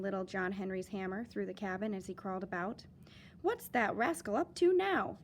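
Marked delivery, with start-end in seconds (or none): 3.4-5.2 chuckling mother. Acted. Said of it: "his mother chuckled".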